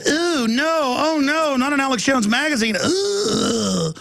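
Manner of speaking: high, whiny-mock horrified hipster; mocking trendy. Trendy spotting the magazine by his girlfriend, mock horror. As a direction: imitate a trendy recoiling in disgust. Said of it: "a little trendy comes over".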